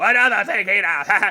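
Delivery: honeyed, sweet, dulcet character voice. After announcing an impression, addressing Hina: Sakura impression. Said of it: "That's my impression of Sakura".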